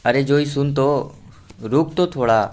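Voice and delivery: put-on grandma calling after the departing girl; calling after her. A narrator's reading. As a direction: call her back across the room. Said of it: "पीछे से टोकते हुए कनक जी बोली".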